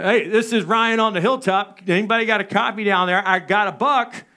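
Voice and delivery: second radio call, no answer from dad and brothers. Retold or imitated. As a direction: push the call out so they hear. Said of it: "maybe they just didn't hear me. Let me say".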